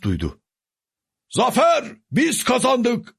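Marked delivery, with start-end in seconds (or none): 1.3-3.1 high cheering shout, slow on the second line; victory cry. A narrator's reading. Soldiers announce the victory, a high cheer. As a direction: call out the win to everyone.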